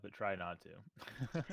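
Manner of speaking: very slow, dragged-out words; drawn out. Real, not acted. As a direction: stretch each word teasingly. Drawn-out playful warning.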